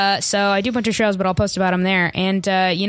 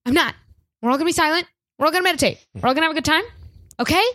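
high, strained forced calm; exasperated; 7 semitones higher, much faster than usual. Acted. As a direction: insist on calm through clenched patience. Guide loses patience, insists.

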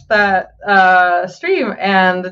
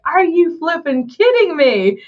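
laughing disbelief; 12 semitones higher than usual. Retold or imitated. Imitating the streamer after finishing, laughing disbelief. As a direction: laugh at yourself for crying over boxes. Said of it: "she's like".

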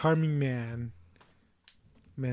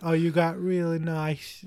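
slow, lightly drawn-out Southern belle accent, barely put on; a quick, half-hearted stab at a Southern accent; mock Southern charm done slowly and badly; 2 semitones higher, slower than usual. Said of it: "she's doing a southern accent".

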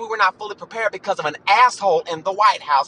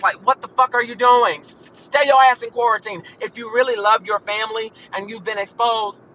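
real exasperated rant, pitched up; fed-up, higher-pitched telling-off; pissed-off ranting; 3 semitones higher than usual. Real, not acted. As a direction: scold them, raised pitch and punchy. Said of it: "I'm ranting and raving 'cause I'm fucking pissed off".

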